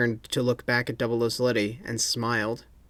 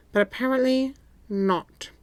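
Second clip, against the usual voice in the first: stern boss; 12 semitones higher than usual. A narrator's reading. M speaks.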